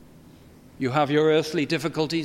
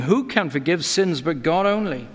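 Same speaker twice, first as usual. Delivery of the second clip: voicing the scribes' indignant challenge; a mild hint of scribal outrage; indignant scribes' question. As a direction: ask it as the doubting scribes would. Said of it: "the scribes sit there questioning in their hearts".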